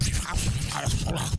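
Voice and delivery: a garbled, mock static voice from the box; imitated box noise. Mimicking the Black Cube's noise to the interviewer. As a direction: make the ghost box sputter out a sound. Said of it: "the Black Cube started going".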